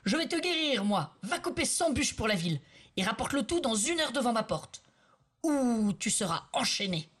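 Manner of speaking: high, furious threat; angry threat. Acted. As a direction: threaten him, red with rage. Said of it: "Rouge de colère".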